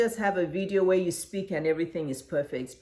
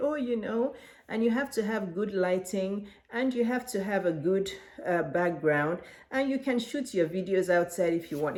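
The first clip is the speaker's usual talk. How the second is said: boring delivery. Shown as a demonstration. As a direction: demo of a dull, unengaged presenter. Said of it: "It's very boring. Nobody talks like that".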